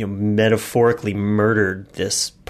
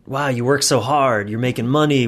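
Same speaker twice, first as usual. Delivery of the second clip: imitating praise; 4 semitones higher, 5 dB louder than usual. Mock praise from others.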